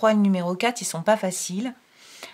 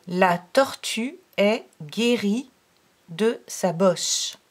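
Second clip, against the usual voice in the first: slow, clear dictation reading; teacher reading a sentence slowly for a pupil to fill in; slow reading aloud; slower than usual. Shown as a demonstration. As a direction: read it slowly so the child can follow. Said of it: "je vais te lire les phrases".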